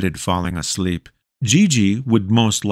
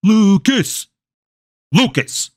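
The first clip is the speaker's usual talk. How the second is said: higher, louder calling of the name; shout; 12 semitones higher, 3 dB louder, slower than usual. A narrator's reading. History teacher calls Lucas awake, high shout. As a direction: call him sharply. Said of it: "his history teacher would shout".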